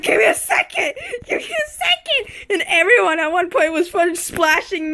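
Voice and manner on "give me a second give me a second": high, whiny begging while drowning; mock pleading. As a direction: whimper it out, half crying. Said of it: "I was like".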